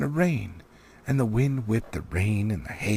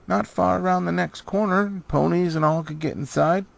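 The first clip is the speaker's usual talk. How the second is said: high, louder, excited dwarf voices; eager young dwarves; 9 semitones higher, 5 dB louder than usual. Acted. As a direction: burst in with good news. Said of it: "they said".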